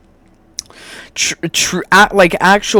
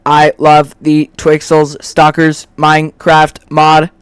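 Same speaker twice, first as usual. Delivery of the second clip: mock robot voice; 3 dB louder than usual. Mocking people without free will in a light robot voice. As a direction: play a brain-dead robot reciting its likes. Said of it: "you would be a robot".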